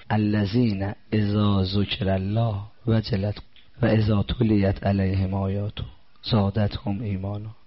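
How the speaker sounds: slow, measured chanting of the verse; slow devotional recitation; Quran recitation. Acted. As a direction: intone the verse reverently and slowly.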